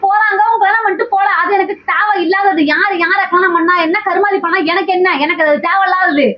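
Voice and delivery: hitting back hard in a quarrel; arguing with a friend in front of the live audience, heated and high; heated outburst. Real, not acted. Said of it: "சத்தம் போட்டு பேசாத".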